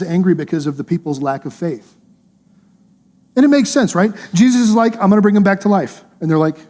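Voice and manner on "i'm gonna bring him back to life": raised, emphatic reassurance; firm, slightly higher mock-dialogue voice; acted insistence. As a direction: play Jesus insisting to a panicking crowd. Acting Jesus arguing with the crowd.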